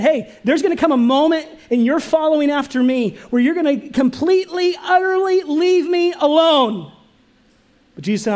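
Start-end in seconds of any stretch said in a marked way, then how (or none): 0.0-6.9 full-force preaching. Acted. Preaching Jesus' words at full force.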